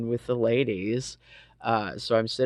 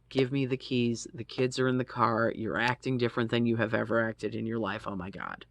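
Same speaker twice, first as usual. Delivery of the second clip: retold plea. Quotes self pleading for keys.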